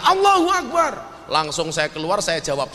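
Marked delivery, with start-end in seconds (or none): 0.0-0.9 raised, mock rallying cry; imitated shouting. Someone outside the preacher's gathering, mock shouting. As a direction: call it out like a shouter, half-strength. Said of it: "ada orang teriak-teriak".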